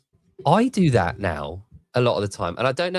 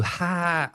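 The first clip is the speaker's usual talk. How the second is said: audience laugh; 6 semitones higher than usual. Retold or imitated. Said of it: "everyone will go".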